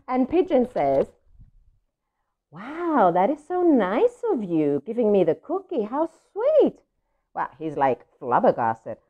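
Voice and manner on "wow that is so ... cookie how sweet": a touch higher, awed delight; amazed. Acted. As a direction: let the wonder bubble up. Pigeon amazed by gift.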